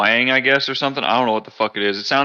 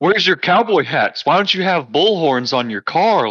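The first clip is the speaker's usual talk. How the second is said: higher, swooping mock-tourist questions; baffled; 7 semitones higher than usual. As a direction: imitate a clueless out-of-state visitor. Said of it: "always baffled by that".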